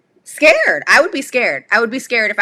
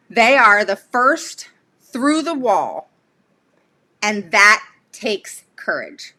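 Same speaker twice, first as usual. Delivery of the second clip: reading a movie quote. Acted. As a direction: read it like a solemn quotation, pausing between phrases. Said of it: "That came from the movie Moneyball".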